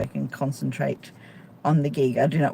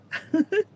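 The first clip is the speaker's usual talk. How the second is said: high laugh; 12 semitones higher than usual. Real, not acted. Laughing at her own bad Irish.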